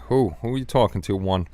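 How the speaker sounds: chewing candy. Real, not acted. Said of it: "Sorry, chewing on a candy pumpkin".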